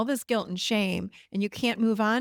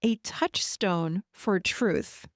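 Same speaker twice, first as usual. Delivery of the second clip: touchstone for truth drawn out slowly; slow emphasis; much slower than usual. Shown as a demonstration. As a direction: spell out touchstone for truth deliberately. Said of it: "to find what I call".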